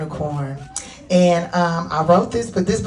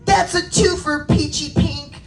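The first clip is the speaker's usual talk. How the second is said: very high playground call; Babsy, blue unicorn player; 10 semitones higher, 4 dB louder than usual. Acted. Blue unicorn calls score to Peachy Pink, high voice. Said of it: "a blue unicorn said".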